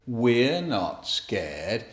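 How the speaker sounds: drawn-out low brave boast; slow low pretend bravery; slow mock brave. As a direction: stretch it slowly, puffing up courage. Bear hunt refrain.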